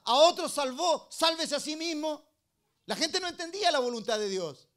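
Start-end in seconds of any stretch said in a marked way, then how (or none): 0.0-2.2 raised, higher jeer, only half shouted; imitated crowd shout. People taunting Christ on the way to the cross, mock shouting. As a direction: call it out like the crowd, opening loud and slow. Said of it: "la gente le gritaba".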